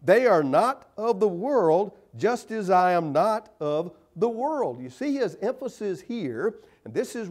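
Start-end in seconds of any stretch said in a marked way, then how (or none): 0.0-4.8 scripture reading. Acted. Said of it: "where he says".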